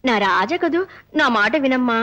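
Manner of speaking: coaxing. Acted. Coaxing visitor up to the terrace.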